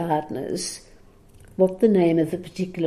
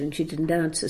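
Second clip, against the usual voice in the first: "answer" said softer, trailing away; fading repeat; 6 dB quieter, faster than usual. Shown as a demonstration. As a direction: let the repeat die off.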